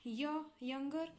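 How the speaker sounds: "य" alone, then "यंगर", slowly; sounding out. Shown as a demonstration. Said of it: "यहाँ पे वाई जो है".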